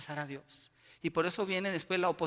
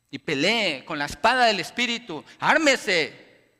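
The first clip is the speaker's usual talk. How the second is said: loud, slow call to arms; rally the church to fight; rousing preaching; 12 dB louder than usual. Acted. Preacher rallying the church to stand firm, loud and slow.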